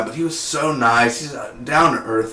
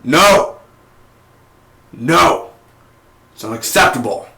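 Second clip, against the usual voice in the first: mock outrage; 3 dB louder than usual. Imitating Ra's al Ghul refusing, hammed-up anger. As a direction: shout no like an outraged father. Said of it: "he would probably be like".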